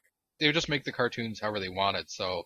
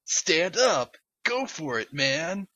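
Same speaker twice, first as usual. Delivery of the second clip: game announcer; 6 semitones higher, 3 dB louder, much slower than usual. Retold or imitated. Fighting game voice quotes.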